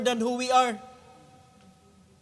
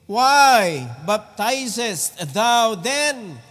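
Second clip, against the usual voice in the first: louder, very slow demand; loud drawn-out challenge; 7 dB louder, much slower than usual. Acted. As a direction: stretch out the accusation. Reading Pharisees' challenge.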